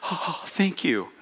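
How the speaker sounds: soft, slow, grateful brain voice; a relieved little voice, slowed right down; a quiet, drawn-out thanks from the brain. Retold or imitated. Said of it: "And it goes".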